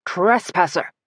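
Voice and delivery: a shrill, commanding call; strident shriek. A narrator's reading. Angry cult leader yells at the trespasser, strident. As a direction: call out sharply at the intruder. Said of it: "he shrieked in a strident voice".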